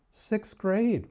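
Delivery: Sixth grade pitched high in hammed-up shock; mock disbelief. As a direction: repeat it as if it's outrageous.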